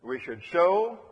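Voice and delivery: "show" drawn out and lifted; stress on show. Shown as a demonstration. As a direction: lean on "show", letting it rise. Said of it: "emphasize the word show".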